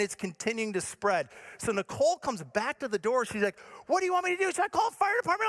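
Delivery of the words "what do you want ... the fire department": high-pitched anxious questioning; imitating frantic wife. Wife at the door to husband, high frantic mock questioning. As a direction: ask in a high mock fluster. Wife's panicked question, retold.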